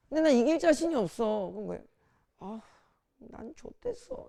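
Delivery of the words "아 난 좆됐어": hopeless, despairing, hushed, breathy near-whispered sigh. Showing how tone follows feeling, a line said in a despairing, hopeless tone. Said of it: "절망적 소리가 나와".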